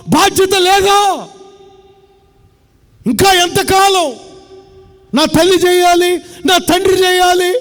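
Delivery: rising, pressing sermon voice; preaching rebuke. Acted. Preacher scolding careless believers, pressing sermon voice. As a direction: preach it hard at the congregation.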